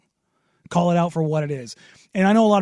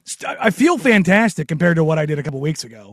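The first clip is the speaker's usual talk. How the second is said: raspy, rough voice from long covid; hoarse, smoker's rasp. Real, not acted. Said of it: "Yes, my voice is raspy and nasty".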